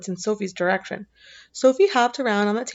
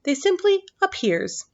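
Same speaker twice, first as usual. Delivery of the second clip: lightly raised giant voice; 8 semitones higher than usual. A narrator's reading. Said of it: "the B F G answered".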